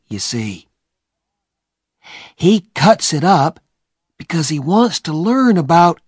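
put-on high, eager boy's voice; a boy explaining what he knows; Huck. Huck explaining grave robbers to Tom, high and eager.

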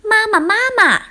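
very high-pitched tadpole cry for Mama; storybook children shouting after mother; repeated loud calling. A narrator's reading. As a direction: call out urgently, pitched right up. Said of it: "追上去连声大喊".

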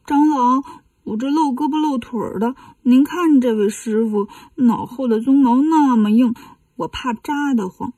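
put-on lightly whimpering child voice; mock tearful. Demon child dodges riding on 八戒, mock tearful. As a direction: make a pitiful excuse, a touch tearful. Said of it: "妖怪蒙蒙眼泪说".

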